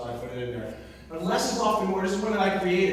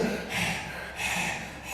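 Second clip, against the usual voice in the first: acted worn-out puff of breath; heavy breath, imitating exhaustion; exhausted exhale; 8 dB quieter than usual. Carol dripping sweat by the end, exhausted exhale.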